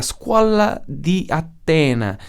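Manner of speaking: slow, hammed-up Italian accent. Shown as a demonstration. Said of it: "Gosto muito de tentar fazer sotaque italiano".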